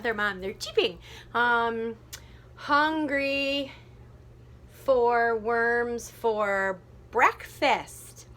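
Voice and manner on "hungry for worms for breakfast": very slow, long separated beats; counting out syllables. Shown as a demonstration. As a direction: try out each syllable, stretched. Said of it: "That'll work".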